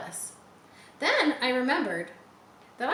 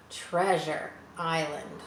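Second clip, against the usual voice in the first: awed gasp; 3 semitones lower, slower than usual. Acted. Wonder at sighting the island.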